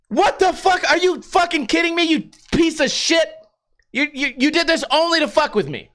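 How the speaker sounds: high, outraged yelling at the cop; furious high rant at a dickhead cop. Retold or imitated. Ranting at the cop.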